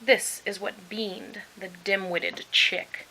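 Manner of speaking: slow mocking sneer. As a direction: savour the insult slowly. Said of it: "he sneered".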